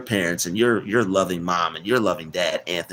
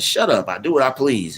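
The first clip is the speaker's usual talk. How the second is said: higher, lightly voiced old lady; a hint of a stubborn old woman; cranky old woman; 5 semitones higher than usual. Retelling the old lady's comeback, mildly mock cranky.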